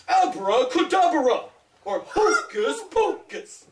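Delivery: slow, grand, drawn-out star delivery with a lift on hocus pocus; dramatic showbiz magic words; like a movie star. Shown as a demonstration. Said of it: "you have to say it like a movie star".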